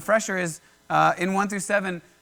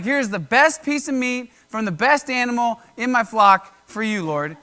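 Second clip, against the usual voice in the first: higher, louder, wholehearted presentation; eager offering; 4 semitones higher, 6 dB louder than usual. Acted. Abel offering his best to the Lord, eager. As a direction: offer it up with mild acted eagerness.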